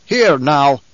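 sharp loud bark to cut him off. Acted. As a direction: bark it to stop the man mid-sentence. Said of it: "Halleck barked".

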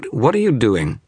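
high, loud challenge; sharp demand. Acted. The image demands to know what the wizard does, sharp. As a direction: bark the question at him. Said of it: "it demanded".

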